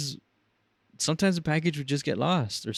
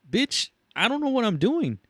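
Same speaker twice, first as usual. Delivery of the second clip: high, exasperated cry of panic; panicked outburst; 12 semitones higher, 3 dB louder than usual. Retold or imitated. New worker panicking at the flood of calls, high and frantic. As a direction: throw up your hands in alarm. His own panicked inner voice.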